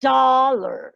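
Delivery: "Dollar" drawn out, last vowel nearly gone; English "Dollar" with reduced second syllable; English schwa ending. Shown as a demonstration. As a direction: hit the D of "Dollar", fade into a schwa. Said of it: "el sonido schwa es casi como si esa desapareciera".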